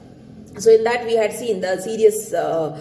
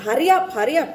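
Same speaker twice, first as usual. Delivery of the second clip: a raised, urgent hurry up from the devil; devil calling; 6 semitones higher, much faster than usual. Acted. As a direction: call him like a tempting devil. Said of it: "calling him".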